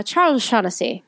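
attempted light Irish accent on the name. Shown as a demonstration. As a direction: say it with a touch of Irish. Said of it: "Can you say it with an Irish accent?".

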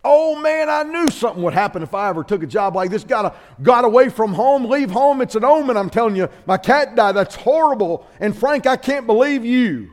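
high, hammed-up anguish over the cat; mock distraught wail. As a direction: play the grieving brother big and whiny. Bob hears his cat died.

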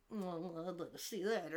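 low, very soft snide comment; mock muttered aside. Tristan sniping at his debate opponent, mock muttered aside. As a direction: drop it low like a badly hidden aside. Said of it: "not at all under his breath".

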